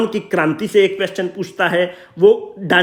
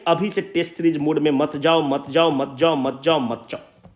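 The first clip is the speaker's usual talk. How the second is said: earnest plea; 4 semitones lower, 3 dB quieter than usual. Real, not acted. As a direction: beg them, sinking lower with each repeat. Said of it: "हाथ जोड़कर विनती कर रहे हैं". (विनती भरे धीमे स्वर में)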